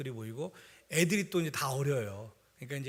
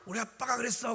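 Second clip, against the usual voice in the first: put-on confident child; 6 semitones higher than usual. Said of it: "당당하게".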